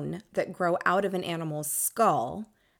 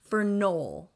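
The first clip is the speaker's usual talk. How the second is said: grand entrance announcement; 2 semitones higher, 3 dB louder, slower than usual. Acted. Introducing special guest.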